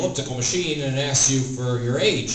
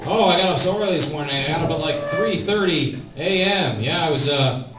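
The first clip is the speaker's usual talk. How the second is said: higher, fast, boastful put-on voice; mock bragging early riser; 4 semitones higher, 4 dB louder than usual. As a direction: brag about waking early like a show-off. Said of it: "you know, like".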